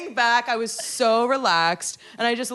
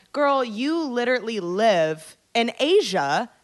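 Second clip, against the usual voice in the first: higher, louder indignant retort; retold angry rant; 4 semitones higher, 5 dB louder than usual. Scolding the coworker about Lebanon, heated. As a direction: tell her off, fired up. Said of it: "I was so mad".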